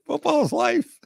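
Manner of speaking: very high, mock-emotional cry; exuberant catchphrase. Radio host hamming up a football slogan, high and exuberant.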